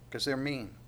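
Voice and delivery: put-on blunt kid's answer, falling at the end; childish retort. Preacher quoting his child self, a mild sulky kid. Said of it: "I go".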